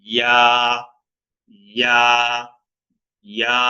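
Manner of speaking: ইয়া short with tongue at palate; Arabic ya. Shown as a demonstration. Teacher drills Arabic letter, short ইয়া. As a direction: clip ইয়া, one beat. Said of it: "খেয়াল করতে হবে".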